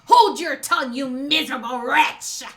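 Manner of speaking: loud, furious declaration; Hiyori. Acted. Daughter silencing the shogun, proudly furious. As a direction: explode with indignant force. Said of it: "these angry tears".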